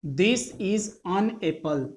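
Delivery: slow, an reduced to un; weak form an. Shown as a demonstration. Teacher repeating the weak an, slowly. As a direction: say an apple with a light un. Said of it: "इसे".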